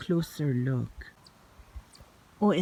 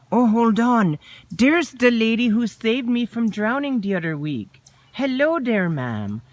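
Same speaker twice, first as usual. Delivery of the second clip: excited; 6 semitones higher than usual. Acted. Excitedly spotting the lady.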